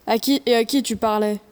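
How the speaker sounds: put-on child faking her dad's deepest voice; deep father voice. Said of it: "prend sa voix la plus grave pour imiter celle de son père".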